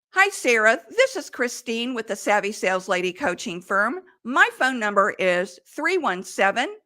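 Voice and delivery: confident, upbeat voicemail message. Shown as a demonstration. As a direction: leave the number like you mean it. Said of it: "You say it with confidence".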